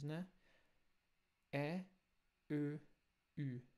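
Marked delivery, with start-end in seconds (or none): 1.5-3.6 E, Ö, Ü with rounded umlaut quality; German umlaut vowels. Shown as a demonstration. Teacher repeats the correct umlauts for students. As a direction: model E, Ö, Ü clearly. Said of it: "são sons diferentes".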